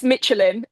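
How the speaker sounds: "Michelin" said the English way; "Michelin" anglicised, MITCH-uh-lin; English pronunciation. Shown as a demonstration. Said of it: "hear it in English".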